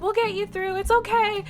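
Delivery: reassuring. Retold or imitated. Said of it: "reassuring me".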